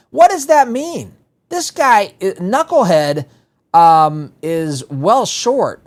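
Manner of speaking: mock-baffled outburst; incredulous. Real, not acted. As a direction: ask it in open disbelief after a laugh. Laughing in disbelief at quote.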